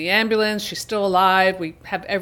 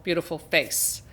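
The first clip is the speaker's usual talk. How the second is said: "beautiful" said much softer, tenderly fading; softer repeat; 3 semitones lower, 8 dB quieter than usual. Shown as a demonstration. Host admiring Laura's face in the freeze frame, softly. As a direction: let "beautiful" fall away softly. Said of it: "repeated word, second softer".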